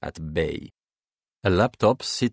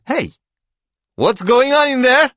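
high, loud demanding yell; sharp raised-voice shout; yelling from next room; 8 dB louder than usual. A narrator's reading. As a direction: call through the wall to find out. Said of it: "Klitsia yells from the next room".

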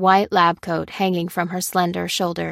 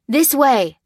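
raised, higher-pitched call; 7 semitones higher, 4 dB louder than usual. A narrator's reading. The man calling the others to a door, urgent. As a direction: call them over urgently. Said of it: "called the man".

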